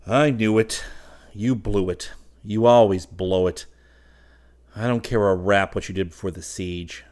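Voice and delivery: loud, emphatic telling-off; exasperated scolding. A narrator's reading. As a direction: lay into a spendthrift friend, loudly. Trent scolds spendthrift friend Fallowby.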